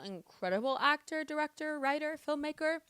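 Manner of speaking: getting emotional. Real, not acted. Praising the Palestinian filmmaker, getting emotional. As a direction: let feeling catch in the praise. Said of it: "I'm getting emotional".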